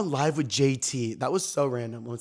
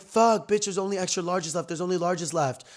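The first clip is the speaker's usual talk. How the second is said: high, dismayed mock outburst; retold dismay; 5 semitones higher than usual. Sty finding only larges left, dismayed. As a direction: act out a friend's alarm. Voices friend upset over missing size.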